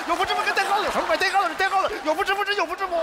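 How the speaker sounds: worked-up repeat, fast and frantic; frantic rant. Acted. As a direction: rattle it off like he's losing his mind. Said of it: "要疯".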